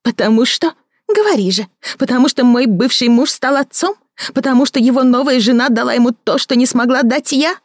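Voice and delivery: a bitter woman mocking her lover; Victoria mocking. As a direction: sneer at his fancy words.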